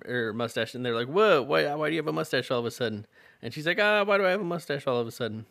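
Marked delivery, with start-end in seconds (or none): 1.1-3.1 mock surprise. Townsfolk reacting to mustache. 3.8-5.5 fast, flustered alarm; hammed-up bewildered cry; shocked waitress.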